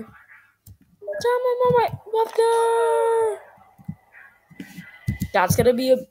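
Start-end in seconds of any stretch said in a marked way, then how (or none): 0.0-3.4 high, slow, hammed-up dying shout; wounded soldier gasping. Dramatic dying farewell, repeated.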